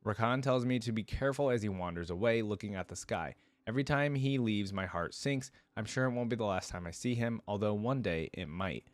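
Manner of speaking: even storybook narration with lightly acted lines; first-person story narration. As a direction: read it as the heroine's own tale. Reads first-person story aloud.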